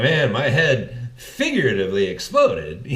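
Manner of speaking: figuratively said with care, stress on the first syllable; correct word stressed. Shown as a demonstration. Podcaster corrects fans' misuse of literally, stressing figuratively. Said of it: "What you meant to say was figuratively".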